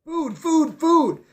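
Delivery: birds calling. A narrator's reading. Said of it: "they called".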